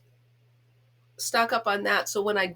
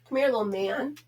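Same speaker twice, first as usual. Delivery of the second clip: coaxing the dog; 3 semitones higher than usual. Real, not acted. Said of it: "I know I'm a goof with him".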